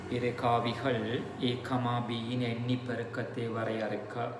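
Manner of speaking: measured exam-question dictation. Real, not acted. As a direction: dictate it phrase by phrase for students writing.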